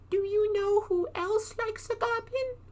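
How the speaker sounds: very high, eerie teasing voice; mysterious cave voice. Acted. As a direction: tease him from the darkness.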